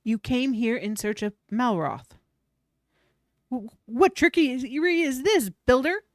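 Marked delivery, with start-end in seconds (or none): 3.5-6.0 louder, stammering accusation; angry demand. Acted. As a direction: snap at the builder, shaken. Demanding how he knows.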